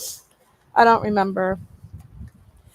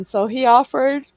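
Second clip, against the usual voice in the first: yawning; 3 semitones higher, 4 dB louder than usual. Real, not acted. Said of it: "I keep yawning".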